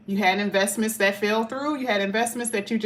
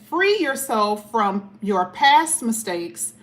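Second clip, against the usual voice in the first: slow, deliberate card reading; measured oracle-card reading; reading the card aloud; 3 dB louder, slower than usual. Acted. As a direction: read each word out slowly. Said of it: "It says".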